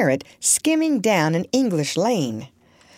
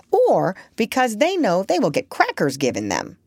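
a lightly voiced talking parrot, a bit higher; chatty old parrot, prim and knowing; 3 semitones higher than usual. Parrot explains.

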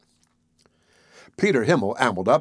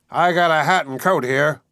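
higher-pitched protest; mild outcry, raised pitch; crying out; 4 semitones higher than usual. A narrator's reading. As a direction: call out in objection. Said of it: "cried Peter".

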